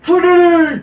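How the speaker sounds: loud, high answering yell; mock yell. Neo yelling back to Trinity, loud high call. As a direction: call her name back across the chaos.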